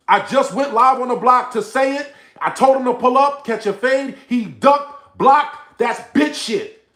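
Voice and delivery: high, loud, exasperated yell; real yelling. Real, not acted. Streamer setting a viewer straight about "y'all", yelling. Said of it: "sorry I had to yell at you".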